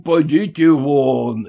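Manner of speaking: slow scornful echo of her order; mocking repeat. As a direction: throw her words back at her. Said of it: "а она: 'Подите вон!'".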